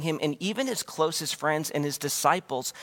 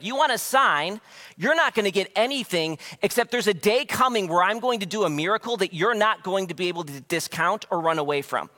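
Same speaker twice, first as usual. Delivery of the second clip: frustrated warning. Retold or imitated. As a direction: warn them, half-exasperated. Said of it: "Jesus is telling the Pharisees".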